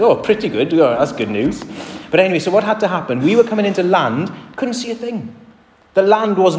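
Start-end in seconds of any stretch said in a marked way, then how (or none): 0.0-1.6 mock reply. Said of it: "It's like".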